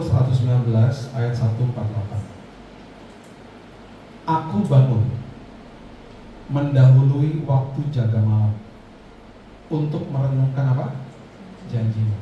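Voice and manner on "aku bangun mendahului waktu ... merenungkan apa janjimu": slow, low measured reading; scripture reading. Shown as a demonstration. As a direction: read the verse aloud to the church. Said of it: "kita baca yang keras ya".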